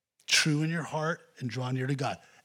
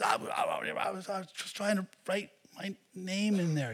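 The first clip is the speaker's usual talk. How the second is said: put-on stammering scared boy; 6 semitones higher than usual. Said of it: "He goes".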